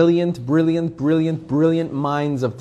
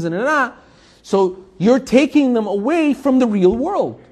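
higher, pushy imitation of a secular critic; mock critic; 6 semitones higher than usual. Rabbi mimics a critic scolding religious parents, mocking and higher.

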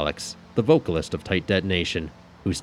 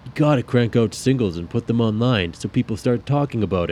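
grumbling bandmate; 6 semitones higher, 6 dB louder than usual. Acted. Seb ranting about album.

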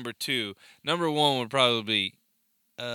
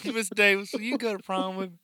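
asking someone out; 8 semitones higher, faster than usual. Retold or imitated. Quoting movie line, asking out.

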